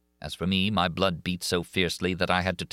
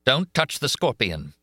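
slow, louder, higher warning; urgent warning; 7 semitones higher, 4 dB louder than usual. A narrator's reading. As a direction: urge her not to touch it. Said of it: "I said".

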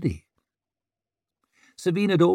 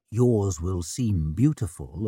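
smugly knowing; 5 semitones lower, 3 dB quieter than usual. A narrator's reading. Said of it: "in a smugly knowing way".

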